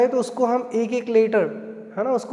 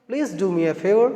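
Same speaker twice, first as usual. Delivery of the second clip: slow model phrase; much slower than usual. Shown as a demonstration. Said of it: "इस तरह से बोलते हैं कि".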